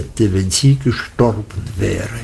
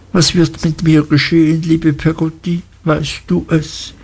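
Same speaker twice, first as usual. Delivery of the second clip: a hint of a young boy, pitched higher; higher voice for a worried little boy's questions; lightly acted child, higher and pleading; lightly voiced anxious child Davy; 6 semitones higher than usual.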